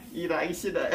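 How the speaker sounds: giggling through the words; laughing. Real, not acted. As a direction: laugh while whining playfully. Laughs while joking about work.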